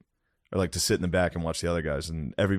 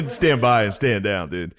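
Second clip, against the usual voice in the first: mock command; 4 dB louder, slower than usual. Ordering the boys to calm.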